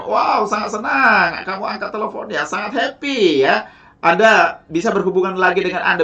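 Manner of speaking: upbeat, friendly phone greeting to a prospect; warm cheerful greeting. Shown as a demonstration. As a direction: gush warmly over the phone to a new partner. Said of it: "Sapalah dengan salam hangat dan nada yang ceria".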